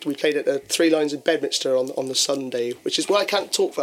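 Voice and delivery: hoarse gravelly voice after gigs; rough gravelly voice, worn from singing. Real, not acted. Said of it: "not using this gravelly voice".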